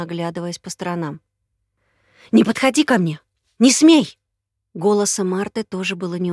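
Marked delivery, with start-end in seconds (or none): 2.3-4.2 loud, high, scared warning; frightened and hostile. Acted. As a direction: shout her off, terrified and hostile. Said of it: "испуганным и враждебным".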